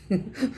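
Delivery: short soft real laugh; a quiet chuckle breaking out. Real, not acted. Vlogger chuckling at Sachin's looks, soft laugh. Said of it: "मेरे को तो हंसी आ रही है".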